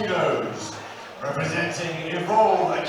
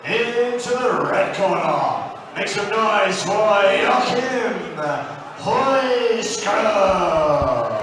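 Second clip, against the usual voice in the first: ring announcer. Real, not acted. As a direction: announce the fighter, stretching out the name. Ring announcer introduces fighter.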